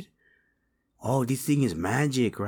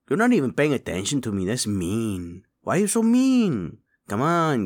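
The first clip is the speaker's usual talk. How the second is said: whiny pleading; 2 semitones higher, 3 dB louder than usual. Acted. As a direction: whine like a hurt kid. Begging for food, rebuffed.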